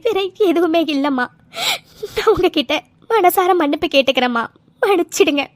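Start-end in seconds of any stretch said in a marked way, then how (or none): 2.2-5.4 pleading for forgiveness, close to tears; tearful apology. Acted. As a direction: apologise with a catch of crying. Apologising to the elder, crying heard.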